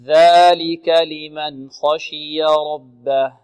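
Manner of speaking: slow, drawn-out melodic recitation; Quran recitation. Shown as a demonstration. Teacher models the verse slowly for the student to repeat.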